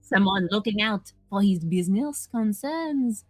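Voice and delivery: a light mock French accent on the letter; lightly voiced Belgian detective; put-on Belgian accent. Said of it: "She's doing a really good job of sounding like she's not normally American".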